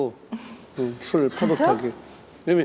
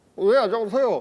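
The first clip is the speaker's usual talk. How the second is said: cheesy, badly faked disguised voice, higher pitch; 6 semitones higher than usual. Speaker retells answering calls while hiding who they are, cheesy disguised voice. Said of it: "목소리를 변조해. 되게 후지게".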